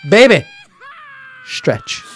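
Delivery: high shouted stretch; mock shouted command, high and loud; calling out to her. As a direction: belt it out playfully to your baby. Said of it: "All I'm gonna tell her is this".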